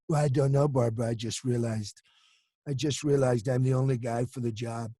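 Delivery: lightly voiced Trump, pleased with himself; Trump interview voice. Trump answering Barbara Walters, lightly voiced and smug. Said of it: "an interview with Barbara Walters".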